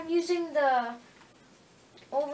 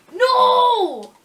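loud cry breaking into a laugh, much higher; laughing shout; 10 semitones higher, 14 dB louder than usual. Real, not acted. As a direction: yell and laugh at once.

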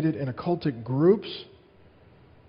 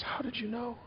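retold bawling; 9 semitones higher, 10 dB quieter than usual. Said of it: "And she just starts bawling".

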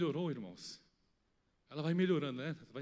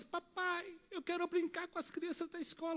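put-on a light, high, softer little-girl voice; imitating his little daughter; 11 semitones higher, 4 dB quieter than usual. Daughter asking her father to play at school, soft child voice. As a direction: gently mimic a small child pleading. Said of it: "Ela diz".

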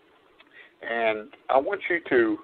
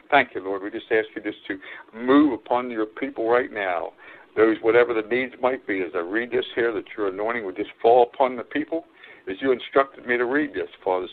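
prayer. Acted. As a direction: pray over the people humbly. Preacher prays over listeners.

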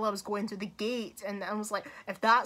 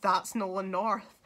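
starstruck disbelief; 4 semitones higher, 7 dB louder than usual. Retold or imitated. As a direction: relive the thrill of recognising someone. Reliving recognising the voice actor.

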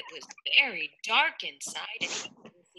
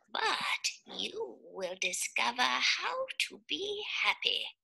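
deep octopus voice; 5 semitones higher, 4 dB quieter than usual. Acted. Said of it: "with a deep voice".

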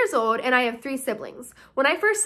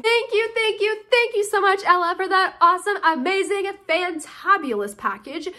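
effusive thanks; 4 semitones higher than usual. Real, not acted. Thanking fan for the package.

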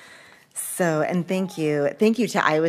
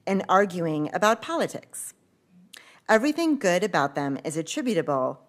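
measured read-aloud with pauses between items; formal bio reading. Real, not acted. Host introducing first reader Genevieve to the audience, formal bio reading. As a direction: read out a speaker's bio, lifting each listed item. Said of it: "read the formal bio".

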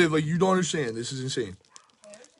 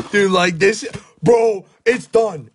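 excited shout; 3 semitones higher, 4 dB louder, slower than usual. Real, not acted. Reacting to a huge pull.

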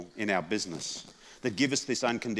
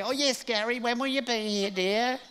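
put-on high sweet old lady voice; lightly voiced elderly mother, much higher; old mum voice; 12 semitones higher than usual. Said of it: "and I'd say".

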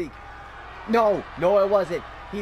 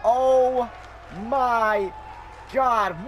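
stunned disbelief; much slower than usual. Real, not acted. Disbelief after kickout.

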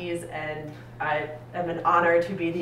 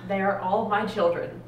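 Jonas Fogg voice; 2 semitones higher, 4 dB louder than usual. Retold or imitated. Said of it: "in the words of Jonas Fogg".

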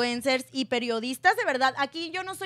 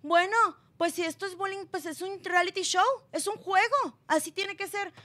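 retold reply; 5 semitones higher than usual. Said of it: "le dice".

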